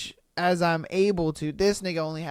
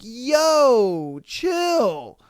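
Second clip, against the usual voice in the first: cop; 5 semitones higher, 4 dB louder than usual. Retold or imitated. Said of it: "open the door on him like".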